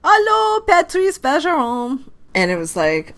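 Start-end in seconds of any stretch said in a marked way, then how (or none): 0.0-2.0 high, bright fan greeting in French Canadian; imitating a fan. Fan at a children's hospital greeting Bergeron, high excited call. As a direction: sing out "Allô" high like an excited fan calling him. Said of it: "and somebody was saying".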